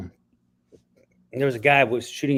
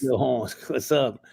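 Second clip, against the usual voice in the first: cholo voice. Pretend. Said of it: "I wanna hear it".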